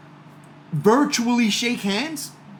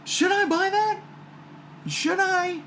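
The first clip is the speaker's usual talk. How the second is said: torn self-question; 11 semitones higher, 3 dB quieter, slower than usual. Retold or imitated. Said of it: "I was like".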